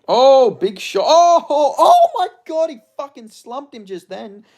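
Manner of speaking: very high, loud laughing cries; shocked laughing. Real, not acted. Viewer stunned by a knockout, shrieking laugh.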